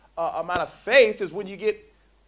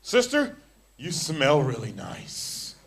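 mock slow flirting; much slower than usual. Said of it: "All sensual".

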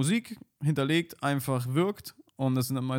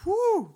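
relieved exhale; 6 dB louder than usual. Real, not acted. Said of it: "So, da bin ich wieder".

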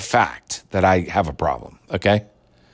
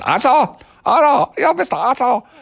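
mock Asian accent. Vlogger showing how not to say the line, mock Asian accent. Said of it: "like it sounds Asian".

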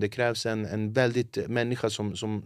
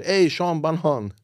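louder, slow, drawn-out fan begging; pestering fan; 5 semitones higher, 6 dB louder than usual. Retold or imitated. Comedian imitating a TikTok commenter begging him to sing, slow and loud.

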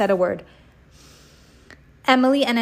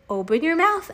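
mock shout; 7 semitones higher than usual. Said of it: "Emily shouted".

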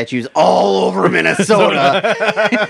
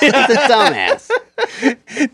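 mock dad put-down; 8 semitones higher, much slower than usual. Echoing dad's put-down.

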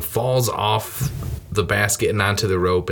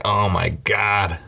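mock wail; 3 semitones lower, slower than usual. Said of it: "doing that cry".

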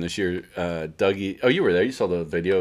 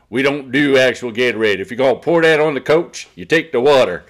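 mock Southern accent; 2 semitones higher, 5 dB louder than usual. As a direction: poke fun at a guy in a light Southern accent. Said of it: "makes fun of him with the Southern accent".

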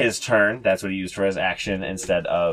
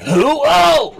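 sudden high loud yelp of surprise; startled yelp; 9 dB louder than usual. Acted. Leader struck by the arrow, high startled yelp. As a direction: jump at the hit with a squeal. DM voices leader being shot.

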